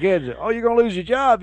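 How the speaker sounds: high, far put-on voice of a cranky customer; mocking a rude shopper. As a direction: sneer it like a petty customer.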